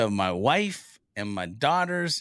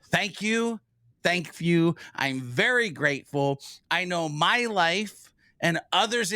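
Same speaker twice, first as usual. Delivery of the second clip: heartfelt, a bit higher, straight into the lens; sincere thanks to camera; 3 semitones higher than usual. Shown as a demonstration. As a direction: speak right to the camera with gratitude. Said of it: "I'm gonna look right at the camera when I say this".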